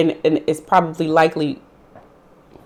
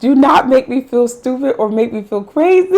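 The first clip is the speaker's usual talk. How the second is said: fed-up accusation; 7 semitones higher, 4 dB louder than usual. Retold or imitated. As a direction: call out the lie with wounded anger. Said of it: "I'd be like".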